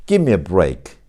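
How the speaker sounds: "Give me" said as "gimme"; "Give me" with no V, just "gimme"; assimilated "give me". Shown as a demonstration. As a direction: run "Give me" into one word, V melted into M. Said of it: "완전 동화 현상이".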